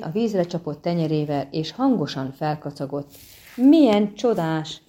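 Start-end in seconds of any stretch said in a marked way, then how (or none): 3.6-4.8 louder, slower delighted exclamation; excited cry. Acted. Siren to the bard, delighted exclamation. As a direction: call out the delight. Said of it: "kiáltotta".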